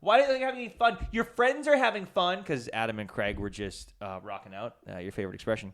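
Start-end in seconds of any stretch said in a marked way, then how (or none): 0.0-2.4 high-pitched mock girl voice, louder; imitating a girl at a band's concert asking why he isn't having fun; pushy girl at the concert. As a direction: play a nosy girl needling a friend. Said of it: "She was doing this to me".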